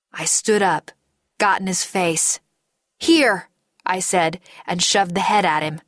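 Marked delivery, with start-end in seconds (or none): 3.0-3.5 louder, higher sharp command; forceful confrontation. Acted. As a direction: thrust the word at him. Confronting him, shoving the head.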